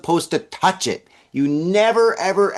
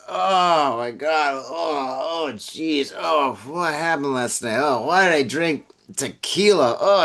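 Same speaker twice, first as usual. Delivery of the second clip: hungover groaning. Acted. Acted hungover morning-after regret.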